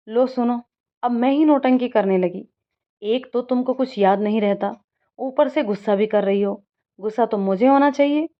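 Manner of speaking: a mild, hurt complaint; angry. Acted. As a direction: throw the blame back, lightly angry. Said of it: "Anjali भी गुस्से में बोलती है". (हल्के गुस्से में शिकायत)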